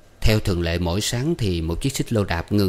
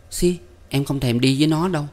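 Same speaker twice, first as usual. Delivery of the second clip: higher-pitched pouting woman; sulky girlfriend; 7 semitones higher than usual. A narrator's reading. Woman refusing an outing with his friend, sulky. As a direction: scoff in a high, petulant voice.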